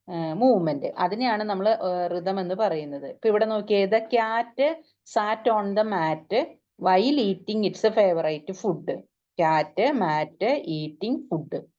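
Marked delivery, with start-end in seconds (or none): 3.8-9.0 beats on "cat", "mat", "eating" and "food"; teacher's rhythm demo stressing "cat", "mat", "eating", "food"; rhythmic stress demo. Shown as a demonstration. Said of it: "താളത്തോടു കൂടിയിട്ടാണ് അതങ്ങനെ വരുന്നത്". 9.4-11.6 "Cat", "mat", "eating", "food" as slow separate beats; slow rhythmic list, each of "Cat", "mat", "eating", "food" stressed; stressed words in rhythm. Shown as a demonstration. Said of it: "താളത്തോടു കൂടിയിട്ടാണ് അതങ്ങനെ വരുന്നത്".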